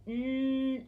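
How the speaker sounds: "n-est" stretched sound by sound. Shown as a demonstration. Teacher reviews the sounds, "n-est" drawn out. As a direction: hold n, e and s of "n-est". Teacher segments nest, then blends.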